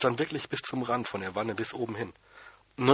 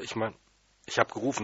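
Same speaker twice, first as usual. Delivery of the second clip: ordinary delivery, nothing marked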